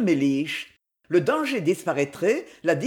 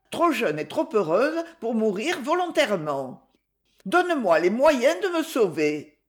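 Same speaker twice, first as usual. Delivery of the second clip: higher, urgent pleading; desperate plea; 4 semitones higher than usual. Acted. Daughter begging father for money, desperate plea. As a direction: beg as if cornered. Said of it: "un changement soudain dans la voix ainsi que dans toutes ses manières".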